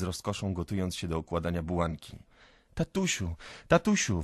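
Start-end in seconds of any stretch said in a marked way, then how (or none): 2.7-4.2 put-on high child's voice; little boy calling. A narrator's reading. Little boy calling to his father, high pleading voice. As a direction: plead upward like a small son. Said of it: "woła mały Rodion do ojca".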